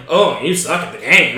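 imitated super-white American accent; mocking white voice. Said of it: "mock my voice in a very white way".

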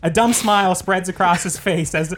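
measured script read-through; screenplay narration. Acted. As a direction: read the scene heading like a trailer. Reads screenplay aloud.

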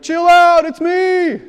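high, loud breezy dude; casual Jesus voice. Retold or imitated. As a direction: toss it off like a laid-back friend.

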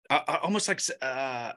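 tripping over words; stammer, searching for words; stuttering. Real, not acted. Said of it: "I'm stuttering".

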